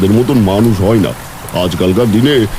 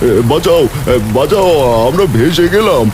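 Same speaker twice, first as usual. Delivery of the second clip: 1 calling for help; 5 semitones higher than usual. Acted. Couple cries for help in flood.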